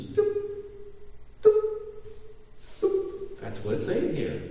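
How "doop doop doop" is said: dripping faucet noise. Retold or imitated. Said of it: "your faucet ... is doop".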